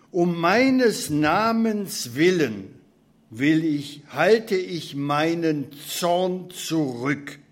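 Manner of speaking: slow, weighty reading of the prophet's words; solemn scripture reading. Acted. Preacher reading Isaiah to the congregation, slow and solemn. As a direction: let each phrase of the verse land slowly.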